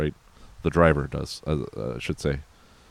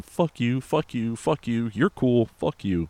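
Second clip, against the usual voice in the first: mock fed-up outburst; 7 semitones higher, slower than usual. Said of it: "talk you off the ledge of just going".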